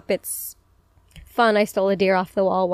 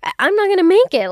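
mock dying; 9 semitones higher, 5 dB louder, faster than usual. Dramatizing feeling sick Friday.

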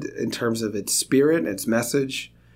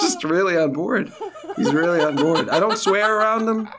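usual speaking voice

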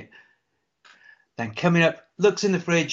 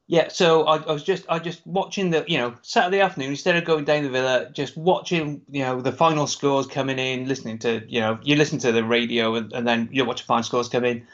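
lightly attempted Brummie accent; poor Brummie accent; 3 semitones lower than usual. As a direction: imitate a Brummie, not very well. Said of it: "a Brummie accent from me".

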